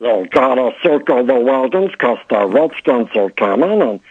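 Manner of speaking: a loose take on the Duke; John Wayne impression. Comedian does a silly John Wayne for the host. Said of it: "My impersonation of John Wayne".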